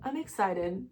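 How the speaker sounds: soft, tearful; crying, quiet. Real, not acted. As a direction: whisper it through tears. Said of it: "I can't stop crying".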